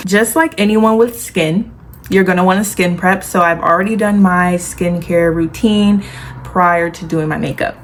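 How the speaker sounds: talking with a retainer in; slight lisp from wearing a retainer. Real, not acted. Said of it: "ignore my lisp. I have my retainer in".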